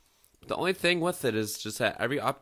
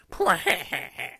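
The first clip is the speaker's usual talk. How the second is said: short higher breathy laugh, hammed up; a rapper's laugh; 8 semitones higher, 5 dB louder than usual. Shown as a demonstration. Streamer tries a rapper's laugh, mock rapper laugh. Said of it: "that's like a kind of a Jay-Z laugh".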